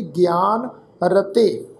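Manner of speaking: ਗਿਆਨ with g gliding through i into long aa; pronunciation demo. Shown as a demonstration. Teacher explaining the half yayya, careful demo of ਗਿਆਨ. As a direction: model ਗਿਆਨ carefully, gi-aan. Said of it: "ਪਾਠ ਉਚਾਰਨ ਕਰਾਂਗੇ ਜੀ".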